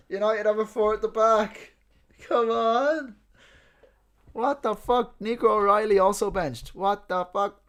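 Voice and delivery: loud, high-pitched disbelief; high, loud burst of astonishment; real shocked excitement. Real, not acted. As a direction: exclaim it in stunned football-fan outrage. Reacting to surprise team lineup.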